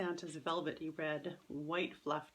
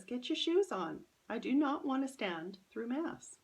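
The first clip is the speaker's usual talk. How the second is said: higher, louder mom voice, mildly impatient; mother urging her daughter before Mass, higher and louder; 7 semitones higher, 5 dB louder than usual. Acted. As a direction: nudge the kid along, half-exasperated.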